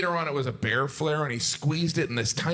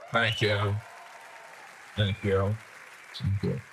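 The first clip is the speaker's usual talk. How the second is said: mock humble; 6 semitones lower, 4 dB quieter, slower than usual. Real, not acted. Accepting imagined applause.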